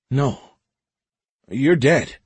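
disbelieving, stunned; shocked disbelief. A narrator's reading. Ensign sees dead man.

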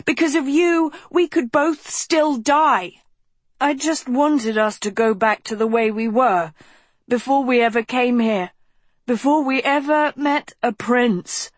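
high, pleading cry; imploring. A narrator's reading. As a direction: beg her high and urgent. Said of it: "Philip implored".

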